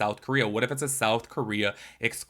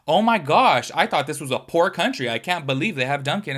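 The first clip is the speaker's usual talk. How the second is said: mock surprised tourist; 3 semitones higher, 4 dB louder than usual.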